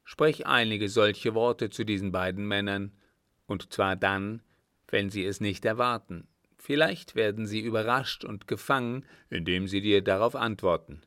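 hint of a chief giving orders; lightly voiced sheik. Sheik telling Sadi to test the strangers, firm.

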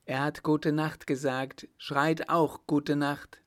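insistent public call; called-out order. A narrator's reading. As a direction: urge a crowd to join the shout. Mayor orders crowd to shout.

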